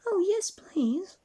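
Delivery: high, slow, breathy-whispered delight; eager Jack. Acted. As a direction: stretch it out with wonder.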